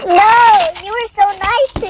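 high, wailing mock grief; hammed-up wail over a loss. Son grieving a death, hammed-up high wail.

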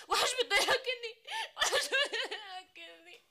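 sobbing. Acted. Sobbing complaint.

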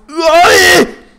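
high, loud scream of frustration; yelled ay. Real, not acted. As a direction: scream it out mid-game. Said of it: "no es necesario gritar para hacer un video". (grito agudo de frustración)

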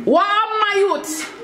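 slow, drawn-out Jamaican "Wow, my youth"; mock Jamaican accent. Asking friends if her put-on Jamaican sounds right. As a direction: stretch it like a Jamaican elder. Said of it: "Am I doing it good?".

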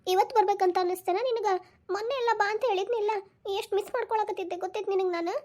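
acted weepy voice; tearful reproach. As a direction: plead through tears, hurt at being left waiting. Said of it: "ಯಾಕ್ ಅಳಾಕತ್ತಿದ್ದಿ?".

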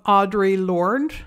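"Audre Lorde" said slowly the French way; French accent. Shown as a demonstration. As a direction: give "Audre Lorde" a French pronunciation, slow. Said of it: "I pronounce it with a French accent".

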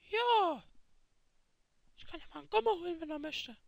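a lightly put-on kid YouTuber voice; faked Milchbubi voice. Kid fakes Milchbubi's voice for his first video, lightly put on. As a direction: play a mild fake of the YouTuber. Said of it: "Ich bin natürlich alles nur gefaked, die Stimme".

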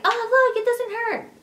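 very high, singsong imitation of a careless nurse; mock breezy nurse. Ignorant nurse stretching baby's legs, mock breezy. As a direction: mimic her brushing it off in a squeaky high pitch.

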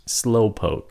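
"Slowpoke" with the final K unreleased; breath held at end. Shown as a demonstration. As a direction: hold the air on the last K of "Slowpoke". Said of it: "Nín hơi lại".

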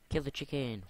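high, loud eager call; excited shout. Real, not acted. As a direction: yell it at the screen. Excited game command.

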